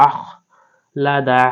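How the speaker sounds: "আখলাদা" with a raspy kh from the throat; slow "আখলাদা", dwelling on the guttural kh; throaty kh. Shown as a demonstration. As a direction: scrape the kh from the end of the throat, then release "লাদা". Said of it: "হলকের শেষ ভাগ থেকে খটাকে উচ্চারণ".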